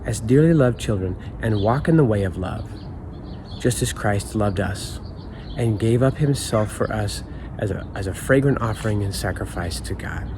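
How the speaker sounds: scripture reading. Acted. Rereads the verse.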